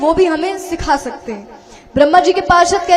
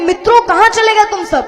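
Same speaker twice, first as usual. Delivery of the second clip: calling out; 5 semitones higher, 3 dB louder than usual. Acted. Krishna calls for missing friends.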